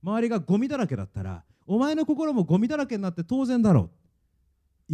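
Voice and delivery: lightly acted devil, goading the listener; devil's taunting. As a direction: press the taunt home as the devil. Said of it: "悪魔はこう言いますね".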